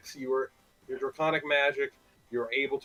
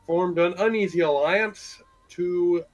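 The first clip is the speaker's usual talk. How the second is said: game master's recap; 3 semitones higher, 4 dB louder than usual. Real, not acted.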